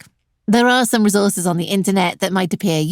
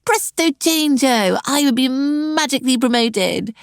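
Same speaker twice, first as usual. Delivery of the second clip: sarcastic; 5 semitones higher than usual. Acted. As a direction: sell the fairy tale with heavy sarcasm. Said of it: "Sorry about the sarcasm".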